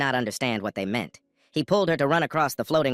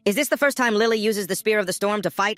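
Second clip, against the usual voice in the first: higher, amazed and delighted; joyful exclaim; 9 semitones higher, 3 dB louder than usual. A narrator's reading. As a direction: marvel out loud at her power. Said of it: "he exclaimed joyfully".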